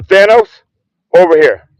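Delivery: calling from far away. Real, not acted. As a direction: call the dog over from afar. Calling dog from a distance.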